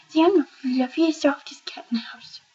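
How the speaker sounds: high put-on pet voice, fading to a breathy hush; voicing the cat. Owner speaks for her fluffy cat, high pet voice trailing off.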